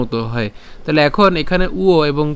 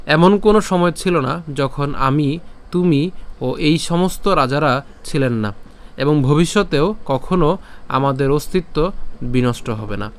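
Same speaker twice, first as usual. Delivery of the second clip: slow, measured reading of scripture; formal translation reading; slower than usual. Shown as a demonstration. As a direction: read it deliberately, phrase by phrase. Reads out the translation.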